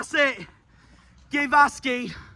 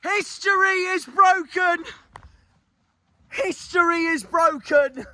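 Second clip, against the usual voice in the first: joyful; 6 semitones higher than usual. Real, not acted. Celebrating promotion.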